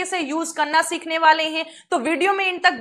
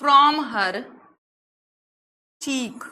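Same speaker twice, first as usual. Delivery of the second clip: slow reading; 2 semitones lower, much slower than usual. Shown as a demonstration. Teacher reading the example sentence slowly to students. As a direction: read word by word with long pauses. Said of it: "तो आइए देखते हैं".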